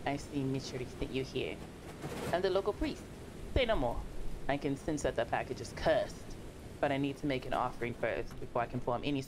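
put-on priest character voice; solemn priest, trailing off into a hush; local priest. Local priest asking courier for an offering, put-on solemn voice.

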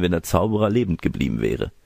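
usual speaking voice

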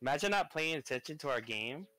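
put-on Valley Girl disbelief. Streamer chiding friend for not paying attention, Valley Girl voice. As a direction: scold in mock Valley Girl style. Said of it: "I got your Valley Girl".

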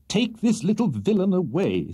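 high, distressed plea; put-upon gentleman at his wits' end; agonized. A narrator's reading. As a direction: cry out for help in agony. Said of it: "said the agonized Mister Pickwick".

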